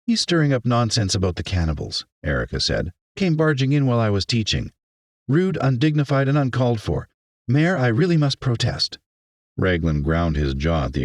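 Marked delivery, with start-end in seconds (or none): 0.1-2.1 higher, indignant teacher; indignant complaint. Acted. Teacher reports an intruder to the mayor, indignant. 3.2-9.0 high-pitched, affronted protest; indignant teacher. Acted. Teacher protests the interrupted class to the mayor, indignant.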